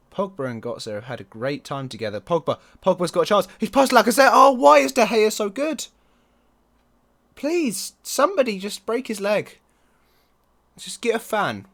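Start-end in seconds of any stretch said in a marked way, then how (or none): 2.8-11.7 exasperated shout. Real, not acted. Chance saved, exasperated shouting.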